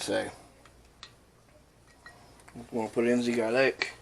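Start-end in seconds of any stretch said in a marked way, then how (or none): 3.2-3.9 lightly mock-French accent; bad French accent. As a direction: fake a French accent, badly. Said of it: "a really bad French impression".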